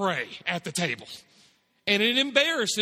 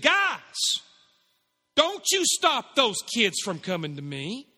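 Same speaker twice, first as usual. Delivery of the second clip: raised, emphatic mock scolding of the disciples; imitating an indignant teacher telling followers off; indignant Jesus; slower than usual. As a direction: act out a stern rebuke with passion in the voice. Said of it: "He had some anger in his voice".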